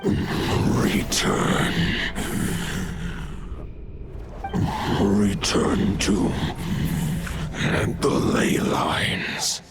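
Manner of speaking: slow, voiceless whisper with long pauses. Acted. Wolf spirit returning to the ley lines, whispered. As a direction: let each phrase out on the breath, haltingly. Dying wolf god speaks.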